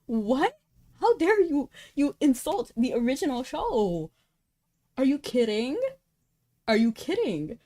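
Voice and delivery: how dare they insult the original; mock outrage. Real, not acted. Outraged reaction to insult of show.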